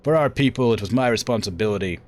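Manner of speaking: lightly acted self-justification; a touch of wounded pride; defensive warrior daughter. Acts Victoria's justification.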